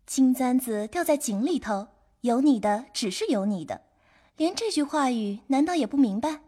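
put-on high, soft, giggly girl's voice; playful, high-pitched teasing; laughing reply. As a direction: start with a giggle, then tease lightly. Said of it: "笑道".

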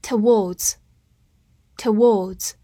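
very slow, drawn-out repeated word; slow review drill. Shown as a demonstration. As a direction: stretch each word for learners. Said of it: "复习一下今天学过的单词". (慢速复习单词)

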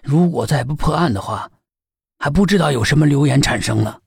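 put-on low, weary sighing old man; sighing, worried. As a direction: sigh out the complaint heavily. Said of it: "唉声叹气的".

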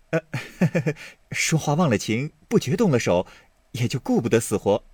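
light laugh then quick apology; Baoyu, laughing. Acted. Baoyu apologising to Daiyu with a laugh. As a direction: laugh it off sheepishly.

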